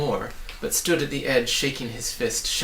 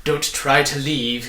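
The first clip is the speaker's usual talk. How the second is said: louder, slow commanding order; 7 dB louder, slower than usual. A narrator's reading. Trivium ordering the travellers to stay, commanding. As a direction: lay down the law. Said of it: "he ordered".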